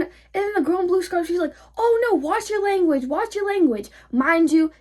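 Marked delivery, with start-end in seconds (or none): 1.8-3.9 high-pitched mock scolding. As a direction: mimic a fussy woman's telling-off in a high voice. Mocking the scolding woman.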